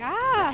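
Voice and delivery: mock startled "ah", high and loud; imitated cat cry. Streamer retelling the petted cat's reaction, mock yelp. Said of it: "She's like".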